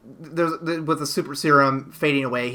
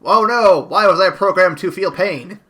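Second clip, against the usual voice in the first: mock lament, a little louder; lightly voiced anguished robot; 3 semitones higher, 6 dB louder than usual. Joking as the robot servant, mock anguish. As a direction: wail it in playful despair.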